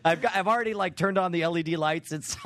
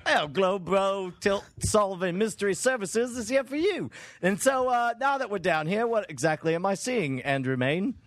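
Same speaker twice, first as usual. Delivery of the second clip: lightly hammed British workman; a bit of bad British accent; put-on British tradesman patter; fake British accent; 3 semitones higher than usual. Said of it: "my terrible fake accent".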